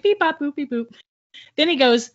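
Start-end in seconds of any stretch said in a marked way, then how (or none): 0.0-0.9 high beeping, falling away at the end; robot noises. Retold or imitated. Storyteller copying the kid in the next stall, robot beeps. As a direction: mimic a kid making robot sounds. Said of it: "like, robot noises".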